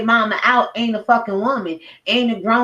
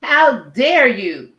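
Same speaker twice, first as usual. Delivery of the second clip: indignant; much slower than usual. Real, not acted. Outraged rebuke.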